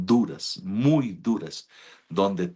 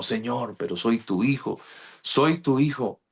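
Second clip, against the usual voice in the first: pleading to God; 4 semitones higher than usual. Retold or imitated. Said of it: "empecé más desanimado".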